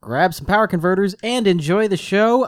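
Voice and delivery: podcast show-opening announcer read. Acted. Host welcoming listeners to Tosche Station Radio, announcer read. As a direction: deliver a practised radio-host intro.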